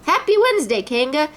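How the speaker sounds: Pooh greeting. A narrator's reading. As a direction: Pooh skids to a stop and greets. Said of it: "he said".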